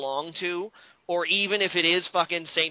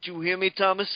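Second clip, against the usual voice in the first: mock threat. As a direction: play the pretend villain, half-laughing.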